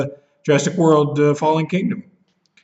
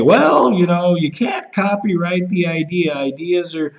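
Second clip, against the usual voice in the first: mocking know-it-all; 4 semitones higher than usual. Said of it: "people will say".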